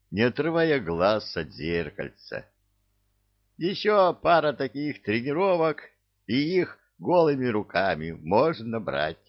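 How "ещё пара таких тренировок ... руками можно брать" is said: put-on old witch voice. Яга доволен тренировкой.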